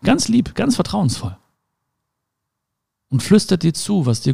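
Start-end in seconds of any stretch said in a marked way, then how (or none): 0.0-1.4 high, gentle, trusting voice; a touch of sweet softness. Shown as a demonstration. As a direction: say it tenderly, like the heart. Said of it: "Weil oftmals flüstert das Herz".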